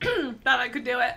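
half-choked, laughing through food; choking on food. Real, not acted. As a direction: cough out the words after choking. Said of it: "She's now choking on food".

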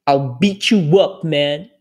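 slow "I'll beat you up" with stress on you; slow mock threat; mock threat demo. Shown as a demonstration. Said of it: "Beat somebody up".

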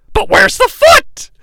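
high-pitched commentator cry; mock alarmed commentary.

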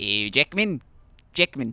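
Aussie model pronunciation; demonstrated Australian accent. Shown as a demonstration. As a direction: show the name in Australian. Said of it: "the Australian accent".

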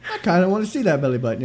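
quick, breathy sultry come-on. Retold or imitated. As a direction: tease it like a seductive line. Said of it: "You have a voice that people are like".

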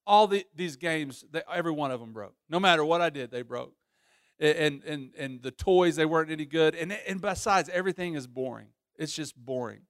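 acted sulk, losing energy as it goes; mock sulking. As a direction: grumble like a bored, sulking son, trailing down. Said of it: "just sulking there. He's pouting".

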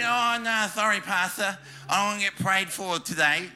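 mock an apologetic refusal, lightly put on; reluctant churchgoer. Churchgoer turning the pastor down for prayer, mock reluctant. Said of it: "you don't have people talk like that".

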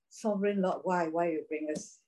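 a hushed lament to the Lord; cried out. Retold or imitated. Joshua crying out to God in despair, hushed. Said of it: "So Joshua cried out".

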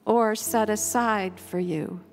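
measured covenant prayer, each phrase given room; slow, thoughtful prayer. Real, not acted. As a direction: read slowly and reverently, pausing after each phrase. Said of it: "read it slowly and thoughtfully".

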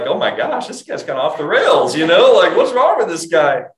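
loud, high alarmed reaction to the psalmist; shocked and loud, like watching someone lose it; alarmed exclamation. Retold or imitated. Preacher mimics a reader shocked by the Psalms, loud alarm. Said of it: "And you're like".

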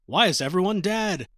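mildly hammed-up alarm, rising at the end; mock freak-out. Hachi asks why everyone is dead, mock freak-out. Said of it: "he's freaking the fuck out".

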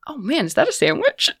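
high, softly delighted newcomer; Cassie. Acted. Newcomer spots Lou's sandwich, high and delighted. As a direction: say it high with eager interest. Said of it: "and she's like".

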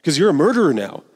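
pressure the cub with mock alarm; urgent Scar. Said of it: "and his uncle's like".

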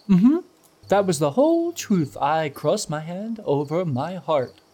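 「無実を装う」; innocent act. Acted. Eliel acting innocent quote.

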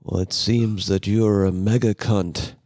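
slow, lightly voiced laid-back drawl; a hint of a drowsy movie star, slowly; Johnny Depp impression. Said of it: "This is my impression of Johnny Depp".

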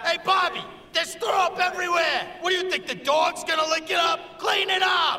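angry yell. Acted. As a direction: bark orders about the mess. Uncle yelling at nephew.

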